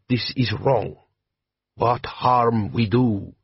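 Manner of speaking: put-on slow, heavy-accented bandit chief; lightly voiced warlord, measured and proud; Jabbar, desert chieftain. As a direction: lean into a slow Klatchian drawl. Jabbar speaking.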